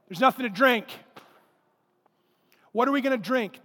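acted complaint from thirsty people; mock grumbling. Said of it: "They grumbled against Moses".

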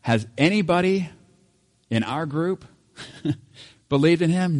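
high, loud, incredulous mock Pharisee voice; scoffing priest, laughing at the very idea. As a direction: ham up the outraged religious leaders, half laughing. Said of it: "they even asked the question".

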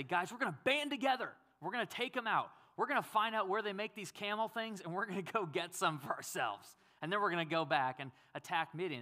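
mock heroic rally cry; rallying pep talk. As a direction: fire up the troops. Imagined brave Gideon rallying troops.

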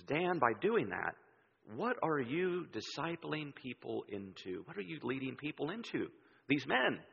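slow, soft Southern drawl; measured imitation of a Southern drawl. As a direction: draw it out gently like a Southern mentor. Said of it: "Southern drawl".

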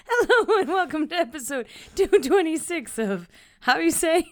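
laughter bubbling under the intro; stifled laughter. Real, not acted. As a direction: hold back a laugh while speaking. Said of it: "I'm just kidding".

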